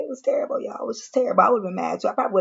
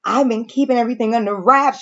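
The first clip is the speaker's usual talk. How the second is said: about to cry; 3 semitones higher than usual. Retold or imitated. Retelling Leah's complaint to her man, mock near-tearful. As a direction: imitate someone nearly tearful and aggrieved. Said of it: "she about to cry and shit".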